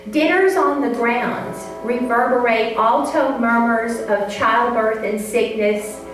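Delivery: measured, unhurried poetry reading; poem reading. Acted. Reads her poem aloud.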